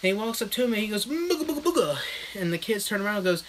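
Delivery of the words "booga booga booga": mock spooky booga. Trying to scare kids.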